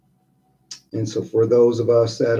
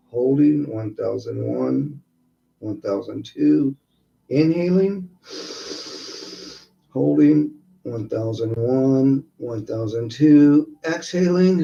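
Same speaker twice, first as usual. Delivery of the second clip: guided meditation. Acted. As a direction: count them calmly through each breath. Leads breathing exercise.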